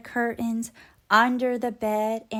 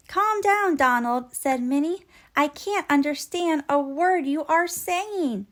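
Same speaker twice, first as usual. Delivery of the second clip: calming loudly; 4 semitones higher, 4 dB louder than usual. Acted. Minnie calming noisy Donald.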